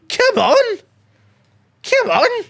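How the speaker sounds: very high shouted cheer; triumphant roar. Real, not acted. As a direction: roar it to the team. Cheering after goal.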